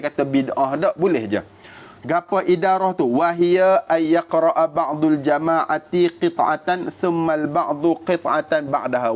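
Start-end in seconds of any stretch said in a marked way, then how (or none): 3.1-9.1 measured, slow Arabic text reading; reciting Arabic text. Acted. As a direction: read out the classical Arabic quotation with care.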